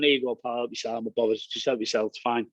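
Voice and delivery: low, soft, easygoing offer to a pal; reassuring offer. Acted. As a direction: casually reassure a rival, voice dropped. Acted offering tacky to a rival.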